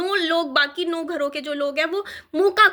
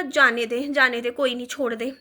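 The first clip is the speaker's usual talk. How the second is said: lower, tired shrug of a voice; resigned letting go; 4 semitones lower than usual. Retold or imitated. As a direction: tell yourself to drop it, lower. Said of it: "क्योंकि मैंने कहा". (धीमी, हार मानती आवाज़ में "छोड़ दे")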